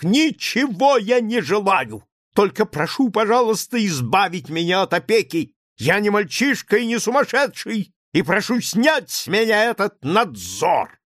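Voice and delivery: high, loud, near-hysterical shout. A narrator's reading. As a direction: scream it out, shaking with nerves. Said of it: "крикнул Лаевский". (кричит в истерике, высоко и громко)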